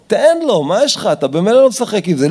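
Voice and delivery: high, exasperated parental scolding; mock-scold a child over a toy; acted quarrel. Parent telling child to share the toy car, exasperated scolding. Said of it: "איזה מריבה".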